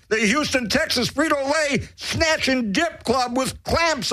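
brash radio shock-jock roll call; announcer. Acted. Host greeting his listeners, brash announcer voice. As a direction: bellow the shout-outs like a DJ.

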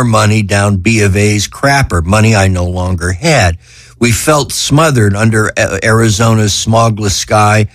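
measured literary reading, lightly lifted pitch; author reading aloud. Acted. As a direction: read your own essay to an audience. Reads own essay aloud.

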